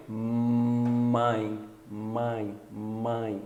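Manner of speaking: mãe opened on a humming M; held M. Shown as a demonstration. Teacher contrasts M with N, mãe with a hummed M. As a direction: press the lips and lengthen the M of mãe. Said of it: "Enquanto o som do M".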